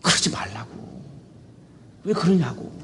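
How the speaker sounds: softly reasoning; mild, quiet reproof; gentle admonishing. Retold or imitated. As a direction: talk someone round gently. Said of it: "타이르는 거예요".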